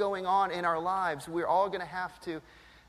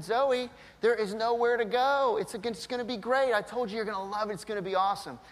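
forced cheerful coaxing; 4 semitones higher than usual. Retold or imitated. Dad coaxing scared child.

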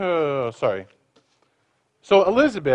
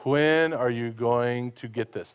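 exasperated parent; 5 semitones lower, 5 dB quieter than usual. Retold or imitated. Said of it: "that's the idea of upbraideth".

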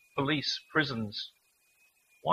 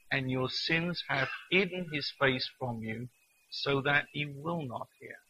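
slow, measured reading from Romans; solemn Bible reading, unhurried; scripture reading. Acted. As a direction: let each line land slowly. Reads Isaiah passage.

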